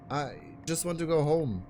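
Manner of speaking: put-on high girl voice. Ruby pleading.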